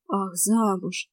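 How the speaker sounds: slow, relieved exhale on замуж; relieved sigh. Acted. The boy learns the girl was only married off, relieved sigh. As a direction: let the breath out with relief. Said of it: "с облегчением выдохнул он".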